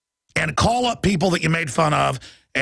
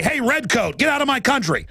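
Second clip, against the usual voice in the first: raised, pitched-up defiance at the Redcoat; defiant call-out; 8 semitones higher than usual. Retold or imitated. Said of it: "I just say".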